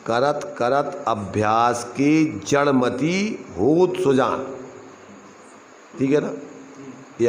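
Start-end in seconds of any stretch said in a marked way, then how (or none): 0.1-4.5 slow, word by word, होत rising, pause, then सुजान falling; measured verse demonstration. Shown as a demonstration. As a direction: spell out the verse slowly, break before सुजान. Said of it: "इसका अर्थ क्या होता है". (धीरे-धीरे, होत के बाद रुककर सुजान)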